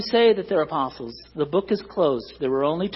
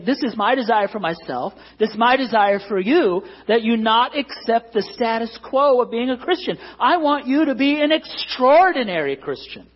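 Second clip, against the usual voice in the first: voicing Paul gently; 5 semitones higher, 4 dB louder than usual. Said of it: "He's saying".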